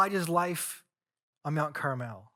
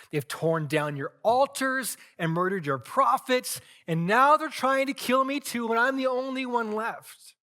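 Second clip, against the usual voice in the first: pouring his heart out; 4 semitones higher, 4 dB louder than usual. Acted. Elijah pleads with God, rising to a loud cry. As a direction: let the complaint swell until it breaks out loud. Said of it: "he pours his heart out".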